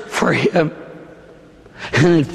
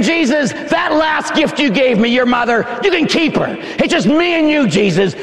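dismissive imitation; 7 semitones higher than usual. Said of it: "You're saying".

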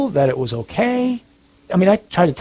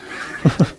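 chuckle; 3 dB quieter than usual. Real, not acted. Laughs at own "shut up" quip.

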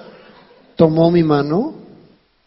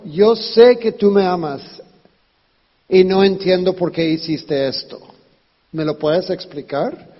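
gentle request. Shown as a demonstration. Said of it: "díselo al otro".

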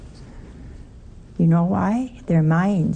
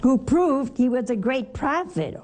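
higher, slightly put-on disciple voice; lightly voiced disciple; 4 semitones higher than usual. Disciple telling the stranger about Jesus, lightly voiced. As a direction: answer like a sure disciple.

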